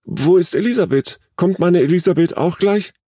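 high-pitched alarmed questioning; anxious foreboding. A narrator's reading. Mother asks after her missing daughter, anxious foreboding. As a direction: ask with rising dread. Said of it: "rief diese voller dunkler Vorahnung".

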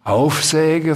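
"Aufsäge" repeated with S for R, questioning; puzzled echoed mispronunciation. A narrator's reading. Sams questions the dragon's word, puzzled "Aufsäge". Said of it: "fragte der Sams".

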